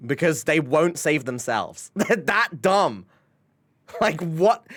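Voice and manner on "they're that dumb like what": laughing, slow and higher. Real, not acted. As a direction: laugh through the words. Laughing at koalas.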